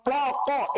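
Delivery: ক popped out high, as in mischief; ক said as a teasing noise; playful demonstration. Shown as a demonstration. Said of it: "এভাবে করে আমরা দুষ্টামি করি".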